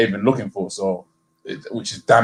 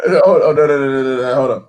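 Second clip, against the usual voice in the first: urgent protest; 3 semitones higher, 7 dB louder than usual. Real, not acted. Cuts in to object on basics.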